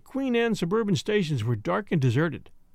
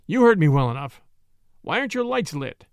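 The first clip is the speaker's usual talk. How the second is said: a louder, curt policeman's demand; stern demand; 5 dB louder than usual. Acted. Policeman presses the boy about unlit lights, stern demand. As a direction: cut off his excuse and press him hard. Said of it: "demanded the voice".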